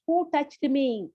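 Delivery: slow, deliberate searching question; Jesus asking. Retold or imitated. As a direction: draw out who touched me slowly. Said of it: "So Jesus asked".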